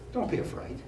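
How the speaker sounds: breathy near-whisper of reassurance; hushed angel voice. Retold or imitated. Angel calming the startled shepherds, whispered. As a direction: hush it like a gentle angel. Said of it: "this voice out of that just says".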